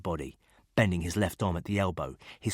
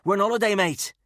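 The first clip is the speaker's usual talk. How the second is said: put-on chummy Scouse accent, all smiles; oozy Scouse; 14 semitones higher, 7 dB louder than usual. A narrator's reading. Scouse ex-para explaining his holiday to Gardner, oozy Scouse. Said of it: "the guy replied in oozy scouse".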